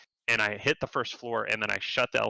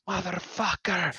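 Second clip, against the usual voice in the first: imitating Russian yelling; 8 semitones higher than usual. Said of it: "screaming at it".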